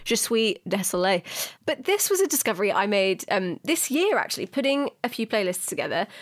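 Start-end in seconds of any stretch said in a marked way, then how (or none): 0.0-1.2 put-on French accent. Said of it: "my dodgy French accent".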